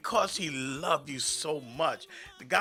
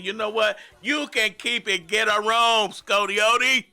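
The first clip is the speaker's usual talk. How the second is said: retold telling-off; 5 semitones higher, 6 dB louder than usual.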